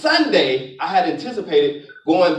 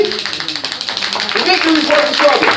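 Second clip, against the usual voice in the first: slow, higher, stressing victory; preached emphatic; 6 semitones higher than usual. Shown as a demonstration. Preacher repeating the line to the crowd, slow and emphatic. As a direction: drive the line home, slowly. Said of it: "You hear me?".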